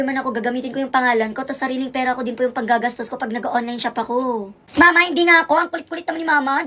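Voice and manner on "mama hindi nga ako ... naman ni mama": exasperated protest. Acted. Child protesting to mother.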